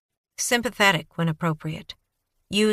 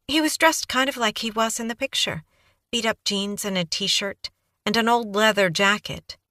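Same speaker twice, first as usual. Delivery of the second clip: put-on high, breathless young woman babbling on; Kaylee's eager voice; 4 semitones higher than usual. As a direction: gush it out like a nervous, eager witness. Kaylee describing Craze.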